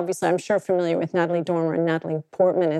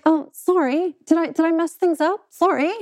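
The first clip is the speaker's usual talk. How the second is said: put-on Essex accent; 8 semitones higher than usual.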